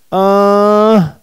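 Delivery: "Android" split after a long first syllable; "Android" in slow, held beats; syllables separated. Shown as a demonstration. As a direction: hold "An", then land the rest of "Android". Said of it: "Vou separar".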